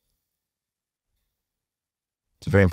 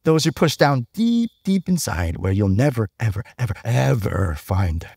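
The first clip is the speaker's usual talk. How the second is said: sweet Unikitty; 3 semitones lower than usual. Retold or imitated. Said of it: "And Unikitty says".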